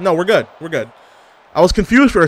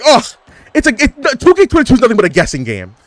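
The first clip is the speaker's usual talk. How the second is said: whiny complaint; 6 semitones higher than usual. Retold or imitated. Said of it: "I'm always like".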